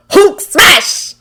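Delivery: excited monster voice; Hulk voice. A narrator's reading. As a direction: growl it out eagerly. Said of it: "Hulk grumbled in excitement".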